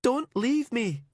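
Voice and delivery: high, slow, tearful; a last begging cry; slow desperate plea. Acted. Heather begging.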